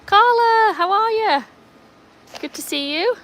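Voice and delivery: high, loud, delighted hello; excited greeting. Real, not acted. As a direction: call out a thrilled greeting. Greeting a viewer by name.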